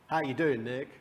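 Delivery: light hint of a Texan accent. Texan oil clients greeting the coach, light Texan accent. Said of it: "They, they speak like this".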